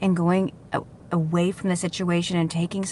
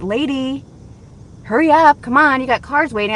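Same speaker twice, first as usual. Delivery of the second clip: higher-pitched mock urging; raised voice, retold impatience; impatient car wash worker; 7 semitones higher, 5 dB louder than usual. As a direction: hurry her along, imitating an impatient worker.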